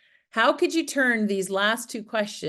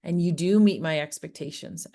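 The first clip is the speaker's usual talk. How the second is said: reassuring. Shown as a demonstration. A parent sitting down to reassure her kid. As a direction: tell a child gently they are enough. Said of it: "set our kids down and let them know".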